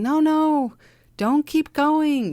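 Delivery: high, loud urgent warning; a sharp inner alarm shouting no, no. Retold or imitated. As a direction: call out to stop yourself in alarm. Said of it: "that voice is there saying".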